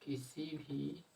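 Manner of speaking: slow breathy whisper, half to himself; whisper while writing. Shown as a demonstration. Teacher writing on the board for students, slow whispered murmur. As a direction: mouth the words slowly as you write them. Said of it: "teacher writing on board".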